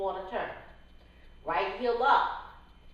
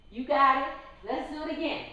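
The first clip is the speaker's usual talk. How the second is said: excited; 6 semitones higher than usual. Real, not acted. Praising dancers.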